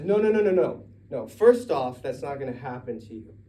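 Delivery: high, loud protest; protesting shout. Acted. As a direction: shout him down in disbelief. Peter protests loudly to Jesus.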